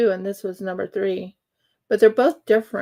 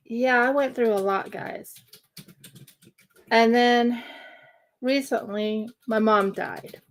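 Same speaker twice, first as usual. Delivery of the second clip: close to crying. Real, not acted. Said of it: "So that's why I sound almost teary-eyed or close to crying".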